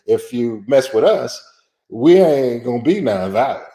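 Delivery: lightly voiced warning to the white establishment; defiant warning. Activists warning the white establishment, mildly defiant. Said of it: "that's how they said it".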